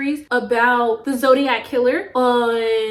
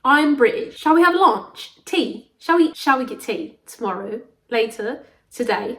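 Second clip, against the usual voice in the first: playful put-on British accent; mock-British accent, politely inviting. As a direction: show off a fake British accent. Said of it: "I'm speaking in my British accent".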